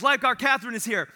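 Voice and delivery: laughing mock hero call; heroic announcement. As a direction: announce yourself like a rescue hero. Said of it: "She goes".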